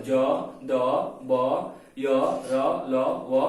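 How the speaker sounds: ज, द, ब voiced firmly, one at a time; demonstrating vibration. Shown as a demonstration. Teacher letting students feel vibration, letters sounded out. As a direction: sound out य, र, ल, व as separate held syllables. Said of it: "तो लगेगा vibration हो रहा है".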